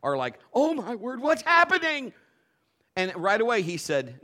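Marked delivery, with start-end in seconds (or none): 0.5-2.1 high, loud panicked exclamation; hammed-up shocked crowd reaction; mock alarm. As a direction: cry out like a startled bystander.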